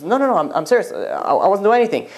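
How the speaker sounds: flustered, repeated denials; lightly acted stammering protest; retold stammer. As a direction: protest haltingly, as if caught. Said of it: "I start stammering".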